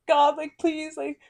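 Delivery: high, loud hammed-up wail of a pleading child; mock tearful begging. Retelling her childhood prayer to God, hammed-up crying plea. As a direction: replay the kid under the bed sobbing to God. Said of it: "I was, like, begging".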